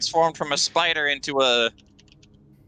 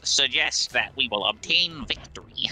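robot voice; 4 dB quieter than usual. Acted. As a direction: speak like a computer. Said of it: "robot voice filter now".

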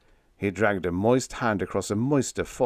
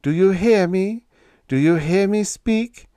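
high, rising coaxing questions; lifted, soothing hypnotist's questions; soothing parent; 12 semitones higher, 8 dB louder than usual. A narrator's reading. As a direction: coax an entranced man like a parent. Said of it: "in the soothing tone of a parent".

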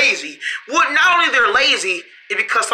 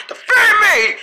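laughing cry; 10 semitones higher, slower than usual. Acted. Comic plea amid laughter.

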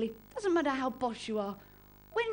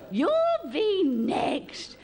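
even slower, louder You'll be next; old relative teasing; 4 semitones higher, 3 dB louder, much slower than usual. Retold or imitated. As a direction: lean in harder on the tease. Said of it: "every old relative came up, right, and went".

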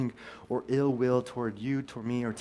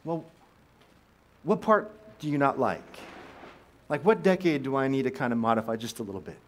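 mock dismay; 2 semitones higher than usual. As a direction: act taken aback and start haggling. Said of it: "he would say".

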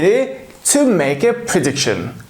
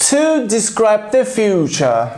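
slow, careful reading of the heading; 3 semitones higher, slower than usual. Shown as a demonstration. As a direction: read the heading out slowly. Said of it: "İlk kullanım yerine".

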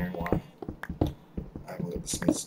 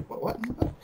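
squeaky meme quote; 14 semitones higher, faster than usual. Retold or imitated. Quoting a meme, high squeak.

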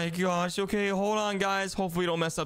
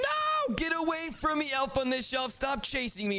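shrieking much higher in fake panic; panicked high shriek; 6 semitones higher than usual. Bubbles fleeing the chasing elf, panicked high squeal. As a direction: squeal like you're being chased.

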